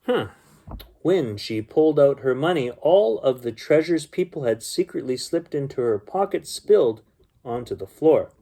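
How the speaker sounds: gentle storybook reading voice; story narration. A narrator's reading. Uncle reading a bedtime story to children, storybook voice. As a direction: read it like a bedtime story for kids.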